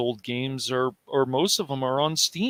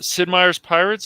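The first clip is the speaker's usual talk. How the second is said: higher and louder, delighted; excited; 5 semitones higher, 7 dB louder than usual. Real, not acted. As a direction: blurt it out in recognition. Recognizing a beloved old game.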